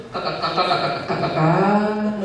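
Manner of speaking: imitating a stammer. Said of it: "Dia tuh nggak pandai ngomong".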